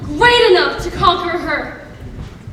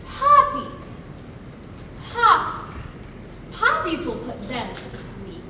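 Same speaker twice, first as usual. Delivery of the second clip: whispered spell; 7 semitones lower, 7 dB quieter, much slower than usual. Acted. Witch casting a spell.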